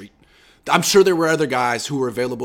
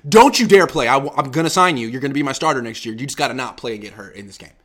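mock GM text; 4 dB louder than usual. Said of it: "I'd be like".

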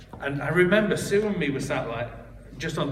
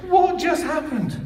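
high, slow, laughing disbelief; laughing stunned question; bewildered; 6 dB louder, slower than usual. Retold or imitated. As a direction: ask it utterly baffled. Stunned after the prophecy.

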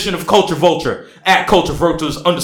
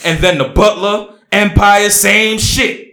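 mock passion; 5 semitones higher than usual. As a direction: overact the wronged man's post. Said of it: "I need more dramatics".

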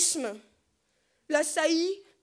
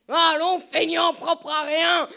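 injure criée; 4 semitones higher, 10 dB louder, slower than usual. Acted. Berger insulte le taureau immobile.

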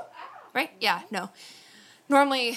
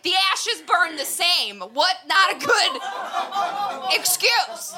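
heated retort; 9 semitones higher, 4 dB louder, slower than usual. Retold or imitated. Heated argument with mom.

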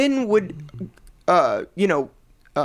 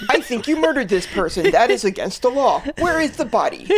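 laughing, hammy dumb cop voice; cop impression. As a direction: play a silly donut-loving cop. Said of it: "a cop's impression".

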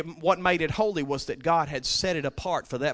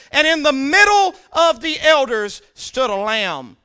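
high, loud preaching voice; full-force preaching; 11 semitones higher, 12 dB louder than usual. Acted. Preacher reading the Lion prevailing, loud preaching. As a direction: announce the victory.

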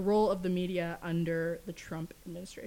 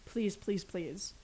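pleading softer; 3 semitones lower, 10 dB quieter, much slower than usual. Real, not acted. Pleading with audience to vote.

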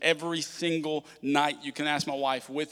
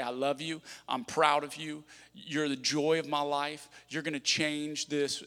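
tender blessing; 4 dB quieter, slower than usual. Retold or imitated. Father blessing son at bedtime.

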